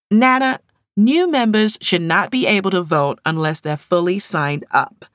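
loud call, then firm rule-making; insistent. Acted. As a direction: lay down the rule. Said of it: "she insisted".

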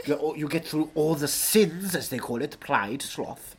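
lightly voiced Welsh actor, relishing the sermon; Anthony Hopkins. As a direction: preach indulgence as a theatrical Welshman.

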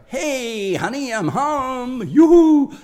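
high, sing-song hello calling through the house; bright high yoo-hoo to the partner; cheery homecoming call. Retold or imitated. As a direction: call out gaily like you just got home.

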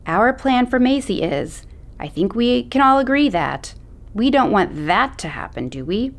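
a light, mocking take on a condescending grown-up; mocking adult voice. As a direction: parrot the patronizing adult, lightly. Macy mocking how adults talk.

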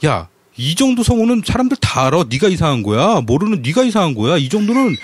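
mildly indignant mock protest; imitated huffy retort. Imitating a friend defending his voice-actor knowledge, mildly huffy. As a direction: retell a friend bristling, pitch lifting slightly. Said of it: "발끈을 하면서 얘기하는 거예요".

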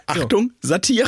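slow, high, loud announcer call; jingle announcement. Pretend. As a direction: sing it out like a warning jingle. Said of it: "das mache ich jetzt bei allem".

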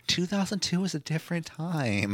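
slow mocking echo; mocking quote. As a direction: echo it back with mock weight.

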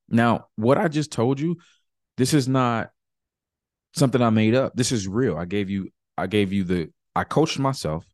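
coach voice. Real, not acted. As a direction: pump them up like a coach. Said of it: "I'm coming back to my coach voice".

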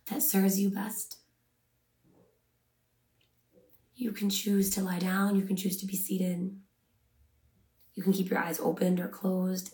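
unhurried meditation guide, long pauses between phrases; measured, calming guidance with room to breathe; guided meditation. Acted. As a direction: ease listeners into rest, phrase by phrase.

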